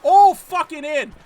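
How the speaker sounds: furious shout. Real, not acted. Gamer raging at the team's wasted chance. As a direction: hammer each word, furious. Scolding the AI coach.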